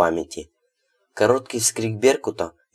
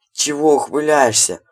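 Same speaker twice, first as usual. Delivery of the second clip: grumbling; 6 semitones higher, 5 dB louder than usual. A narrator's reading. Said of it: "буркнул он".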